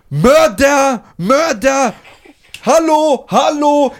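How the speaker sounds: high shrieking cries; imitated screaming. Woman screaming at the train window, high shrieks. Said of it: "Weil sie ja von draußen geschrien hat".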